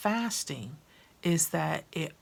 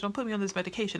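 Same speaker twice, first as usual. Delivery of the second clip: mock pleading sister, repeated; 3 semitones higher, much faster than usual. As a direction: repeat the plea, a little calmer. Sister pleading with her doctor.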